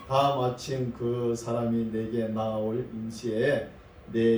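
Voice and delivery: slow, measured Bible reading; scripture reading. Acted. Preacher reads the verse to the congregation, measured scripture reading. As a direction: read the verse out deliberately, phrase by phrase.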